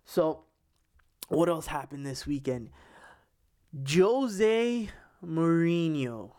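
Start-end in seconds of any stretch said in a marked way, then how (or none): 3.9-6.3 slow, stretched out name, like a big reveal; drawn-out announcement. Real, not acted. Host announcing the weekend's next topic, slowly and dramatically. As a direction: draw the name out slowly for effect.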